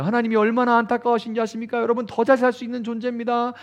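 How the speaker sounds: lightly voiced pleading revival preacher; revival preacher's plea. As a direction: mildly imitate a speaker egging on tears. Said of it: "이러면서 막 이렇게 북돋는 거예요".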